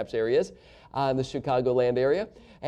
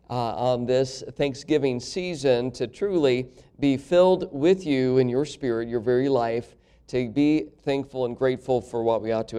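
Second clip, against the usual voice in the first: prayer; 2 semitones lower than usual. Acted. Opening prayer in the service.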